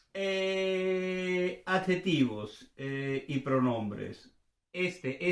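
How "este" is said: brisk, higher-pitched first item of a list; quick recitation. Shown as a demonstration. Teacher running through demonstratives for learners, quick recitation. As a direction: rattle off ESTE as a list word. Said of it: "Fue muy rápido, ¿verdad?".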